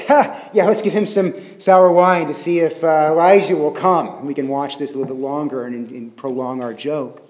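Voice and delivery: mock "Ha!" then casual scheming; joking mockery. Preacher voicing the wine-giver going along with the joke, mild mockery. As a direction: play along with the joke, lightly acted. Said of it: "going along with the joke".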